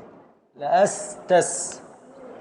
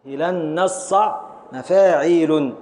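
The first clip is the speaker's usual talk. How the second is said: slow scansion. Shown as a demonstration. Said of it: "نقف على العين الساكن الثالث".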